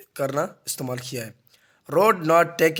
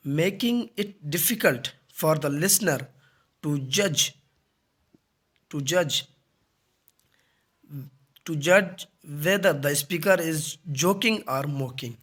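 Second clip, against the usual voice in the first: slow, halting dictation; definition read aloud; much slower than usual. Acted. Teacher reading the deadpan sarcasm definition, slow dictation. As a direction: read it slowly, pausing after each phrase.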